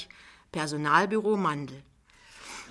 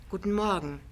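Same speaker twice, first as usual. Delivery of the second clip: gentle and polite. Acted. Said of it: "sanft und höflich".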